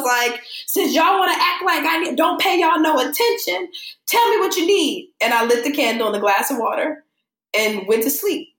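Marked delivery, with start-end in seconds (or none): 0.6-5.1 higher, pissed-off demand to the spirits; half-mock scolding of the dead folks, pitched up; telling off pushy spirits; retold irritated demand. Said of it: "I was pissed".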